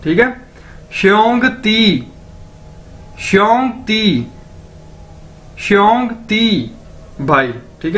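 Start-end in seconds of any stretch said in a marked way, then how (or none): 0.9-6.8 श्योंग ती drawn out, falling on श्योंग; slow drilled xiongdi. Shown as a demonstration. Teacher drilling the class: श्योंग ती slowly, falling. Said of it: "इसका मतलब है brother".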